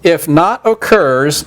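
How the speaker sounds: slow, deliberate dictation; dictating. Shown as a demonstration. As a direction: spell it out slowly for note-taking. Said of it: "now what we're gonna do".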